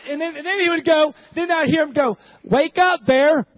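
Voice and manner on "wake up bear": loud imitated child's call. Preacher voices son waking Daddy bear, hollering. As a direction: holler to rouse a pretend bear.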